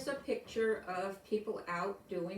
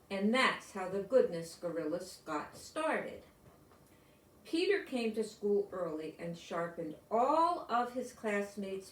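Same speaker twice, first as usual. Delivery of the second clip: storybook reading. A narrator's reading. Reads picture book to class.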